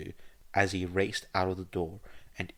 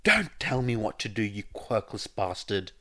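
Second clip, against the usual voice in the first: exploding in anger; 3 semitones higher, 3 dB louder than usual. Acted. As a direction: lash out, spitting the insult. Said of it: "until Bakugo exploded".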